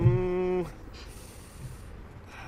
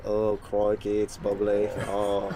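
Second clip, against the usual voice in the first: lightly put-on Australian accent; a loose Australian accent, drifting Scottish; 4 semitones lower, 5 dB quieter, much slower than usual. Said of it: "your Australian accent started turning, like, really Scottish and Irish".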